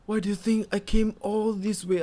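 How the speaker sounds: a hint of a solemn Bran; imitating Bran. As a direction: parody Bran delivering the line with mock gravity. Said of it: "Then now he say".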